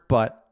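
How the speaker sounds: single out "but" with a firmer beat; stress on but. Shown as a demonstration. Host to listeners, marking the word "but" with extra weight. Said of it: "take the word".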